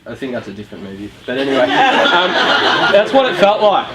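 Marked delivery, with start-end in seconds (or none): 1.2-3.9 laughing through it. Real, not acted. Laughing at his own embarrassing memory.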